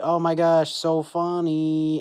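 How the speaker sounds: gushing, high and loud, stretched out slow; mock gushing. Viewer retelling her gushing reaction to the funny heroine, drawn-out mock gush. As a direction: gush like a starstruck fan.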